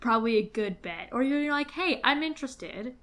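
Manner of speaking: sleazy salesman. Pretend. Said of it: "can you please do this in a real estate voice".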